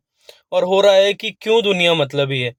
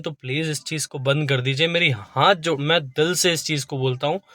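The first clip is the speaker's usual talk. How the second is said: softer, sincere begging with folded hands; heartfelt plea; 2 semitones lower, 4 dB quieter than usual. Real, not acted. Vlogger begs viewers to quit gambling, soft sincere plea. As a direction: plead from the heart, voice dropping. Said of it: "मैं हाथ जोड़ के आपसे निवेदन करता हूँ".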